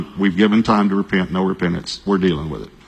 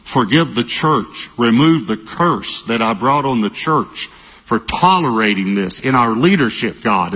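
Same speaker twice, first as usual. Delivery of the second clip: retold repentant prayer. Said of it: "I'm repenting".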